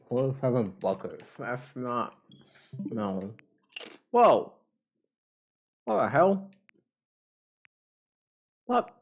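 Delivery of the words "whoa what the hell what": startled loud whoa; surprised. Real, not acted. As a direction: caught off guard, louder and higher. Surprised by big update.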